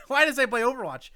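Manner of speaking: loud, high, laughing outburst; laughing disbelief. Real, not acted. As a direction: laugh in disbelief at your own slip. Laughing at own slip.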